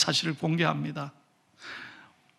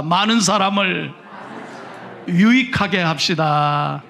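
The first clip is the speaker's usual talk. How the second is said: slow, firm lead line for the congregation to echo; slow call to repeat; 2 semitones lower, 3 dB louder than usual. Shown as a demonstration. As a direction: spell it out slowly so they can repeat. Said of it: "한번 따라합시다".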